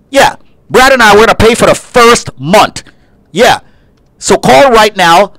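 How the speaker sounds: pushy host selling credit repair; hard-sell infomercial read, punchy and direct; radio ad pitch. Acted. Host pitches credit repair to listeners, pushy ad voice.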